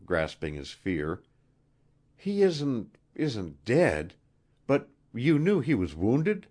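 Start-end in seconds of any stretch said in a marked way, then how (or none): 2.2-6.5 higher-pitched, faltering queen; anxious queen. A narrator's reading. Queen telling Wilson of his wounded friend, anxious. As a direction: voice a worried queen, hesitant.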